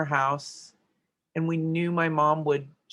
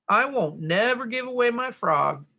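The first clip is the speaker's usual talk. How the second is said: a light hick voice, a bit higher and louder; bumpkin talk; 7 semitones higher, 4 dB louder than usual. Shown as a demonstration. Teacher mocking bad grammar in a mild bumpkin voice. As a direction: lightly play a country bumpkin. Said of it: "sound like a bumpkin saying it like this".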